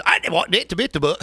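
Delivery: rough imitation of Cockney speech; mock Cockney accent. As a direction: have a half-hearted go at Cockney. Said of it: "I'm not gonna try to do a Cockney accent".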